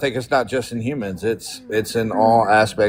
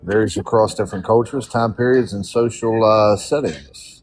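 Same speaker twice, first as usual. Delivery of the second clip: reading aloud. Real, not acted. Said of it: "let me read the definition".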